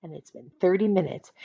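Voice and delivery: ordinary delivery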